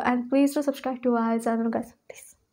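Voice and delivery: breathy whispered plea; whispering. Real, not acted. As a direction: whisper the request like a secret. Begging viewers to subscribe.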